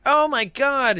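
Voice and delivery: high, hammed-up gasp of shock; mock shock. Host voicing a shocked character, high mock surprise. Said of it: "he's like".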